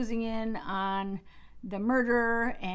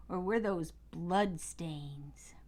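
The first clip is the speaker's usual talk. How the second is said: whisper; 3 semitones lower, 4 dB quieter, much slower than usual. Acted. Suspenseful reveal of a clue.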